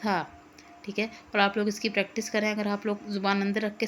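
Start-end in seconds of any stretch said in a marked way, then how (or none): 0.0-0.3 "सा" with tongue between the teeth; Arabic thaa. Shown as a demonstration. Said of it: "रख के थोड़ी सी बाहर निकाल के इसको बोलना है". ("सा" ज़ुबान दांतों के बीच रख कर)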